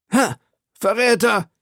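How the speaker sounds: high-pitched outraged cry. A narrator's reading. Stabbed duke accuses his attacker, crying out high. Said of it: "schrie Buckingham".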